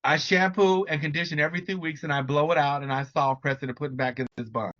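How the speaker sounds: lightly imitated Jamaican accent; bad Jamaican accent. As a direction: quote an elderly client with a rough Jamaican accent. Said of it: "really bad, um, Jamaican accent".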